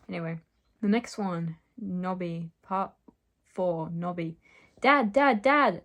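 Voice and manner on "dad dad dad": high, loud excited calls for Dad; excited cry. Acted. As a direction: call out to Dad, bursting with excitement. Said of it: "Titania cried excitedly".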